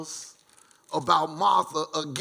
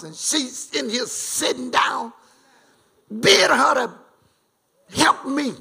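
angry complaint; 4 semitones higher than usual. Acted. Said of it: "And Martha got angry".

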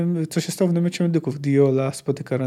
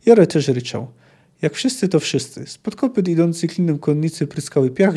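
expressive war-story reading with acted commands; story narration. A narrator's reading. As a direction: read the battle scene aloud with rising emphasis. Czyta powieść na głos. (ekspresyjna narracja powieści)

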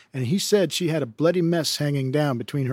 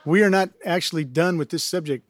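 laughing aside; 3 semitones higher than usual. Real, not acted. Host laughs after story.

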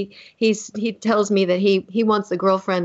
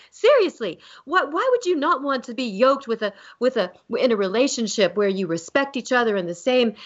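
worked-up, higher-pitched Southern mom; 4 semitones higher than usual. Retold or imitated. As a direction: challenge your son in excited Southern style. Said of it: "we get excited and emotional. That Southern accent comes on".

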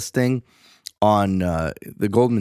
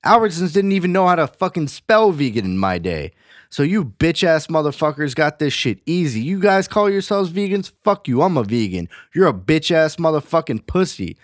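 put-on higher, scornful ranting voice of a grizzled old vegan; old school vegan rant; 4 semitones higher than usual. Old school vegan berating new vegans, scornful higher rant. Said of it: "vegans ten years ago that are still vegan today are like".

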